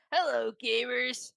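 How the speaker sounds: slow drawn-out YouTuber greeting; imitating MatPat. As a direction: greet gamers like a YouTuber, slowly. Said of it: "Just that over and over again".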